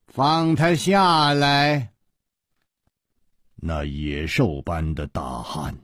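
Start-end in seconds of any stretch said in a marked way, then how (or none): 0.1-1.9 drawn-out order, mild shout; commanding shout. Acted. Leader orders his henchman, commanding call. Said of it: "大喝道".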